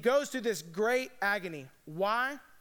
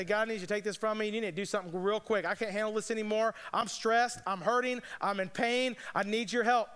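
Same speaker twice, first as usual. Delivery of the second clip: hurried selfish prayer. Retold or imitated. Preacher voicing his own selfish prayer, fast and pleading. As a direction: rattle off a self-centered demand to God. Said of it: "selfishly, I run to God in pain".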